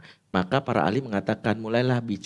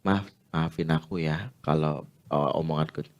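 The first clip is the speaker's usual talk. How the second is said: soft apology; 5 semitones lower than usual. Shown as a demonstration. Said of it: "makanya kita bilang".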